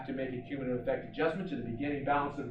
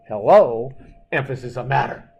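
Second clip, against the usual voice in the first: called-out heading; 11 dB louder than usual. Shown as a demonstration. Teacher calls out the heading.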